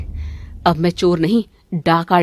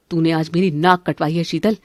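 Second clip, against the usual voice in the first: normal talking voice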